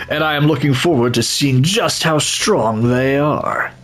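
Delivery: a lightly put-on eager warrior, thrilled. Player voicing an eager warrior greeting the others, keen. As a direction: voice a fighter itching for battle. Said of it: "I don't know why I'm using this voice".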